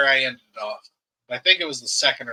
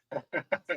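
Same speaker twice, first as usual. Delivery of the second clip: a real tired yawn sound; 3 semitones higher, 10 dB quieter than usual. Real, not acted. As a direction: let out a long sleepy yawn. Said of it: "Sorry, I'm yawning".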